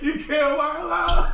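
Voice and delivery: high, slow words through laughter; laughing. Real, not acted. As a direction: squeeze it out while cracking up.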